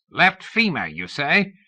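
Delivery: put-on high, creaky old man asking about the "femur"; ancient croaking voice. A narrator's reading. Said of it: "came an ancient croaking voice".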